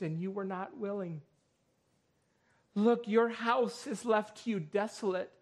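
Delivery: measured pulpit reading with long pauses; scripture lament. Acted. Preacher reads Jesus' lament over Jerusalem, solemn scripture reading.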